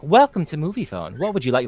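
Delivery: lightly voiced phone-line announcer; a hint of polished commercial greeting. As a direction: greet callers like a recorded ad. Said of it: "if your commercial voice was like".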